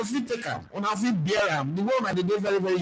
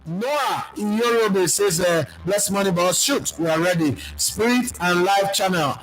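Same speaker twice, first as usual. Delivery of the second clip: loud reading; 6 dB louder, slower than usual. Real, not acted. Reading comment aloud loudly.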